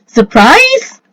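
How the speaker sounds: high, loud burst; yell. A narrator's reading. Revealed impostor springs his surprise, high loud yell. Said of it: "he yells".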